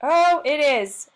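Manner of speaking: real surprised realization, stretched out; pleasant surprise. Real, not acted. Presenter finding the broken tool works after all, pleasantly surprised.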